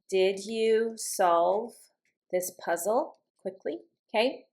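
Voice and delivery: measured teacher's demo, QUICKLY rising at the end; rising yes-no question. Shown as a demonstration. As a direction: let the voice climb on "quickly". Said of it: "my voice goes up".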